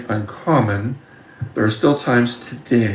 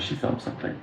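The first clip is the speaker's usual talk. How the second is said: breathy hushed whisper on felt; 5 semitones higher, 9 dB quieter than usual. Retold or imitated. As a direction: lean in and whisper it like a secret. Repeats line, second time hushed.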